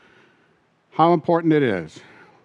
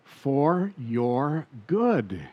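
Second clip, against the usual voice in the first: drawn out and softer, "For your good" stretched long; hushed, slow emphasis; 2 semitones lower, 6 dB quieter, much slower than usual. Acted. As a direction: linger gently on each word. Preacher repeats key phrase slowly.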